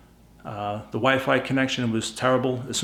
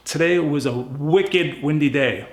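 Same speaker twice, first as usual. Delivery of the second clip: Boston accent, drawn out slowly. Real, not acted. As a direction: say it like a Boston local. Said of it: "my Boston accent".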